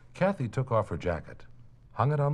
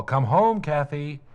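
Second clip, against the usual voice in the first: raised call, rising on home; 8 semitones higher, 9 dB louder, slower than usual. Acted. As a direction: call her in from outside. Parents calling child home.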